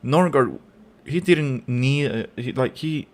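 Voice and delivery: rising heat, pushing hard on each point; real anger. Real, not acted. Fan ranting at the referee over a yellow card, angry. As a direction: vent it like the call just robbed you. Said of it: "Sorry, I'm angry".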